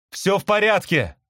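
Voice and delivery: high reassuring cry, modest volume; calling back. A narrator's reading. Brother bird reassures caged sister, calling out. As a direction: call back to calm her. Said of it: "крикнул я ей в ответ".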